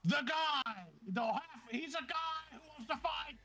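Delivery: high, projected fight-night call; ring announcer. Acted. Announcer addresses the crowd after the fight, high showy call. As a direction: hype up the arena crowd.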